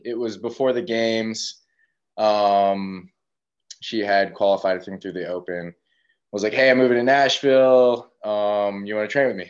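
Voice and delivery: winded after running upstairs; breathless, catching air between words; out of breath. Real, not acted. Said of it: "Sorry, I'm out of breath".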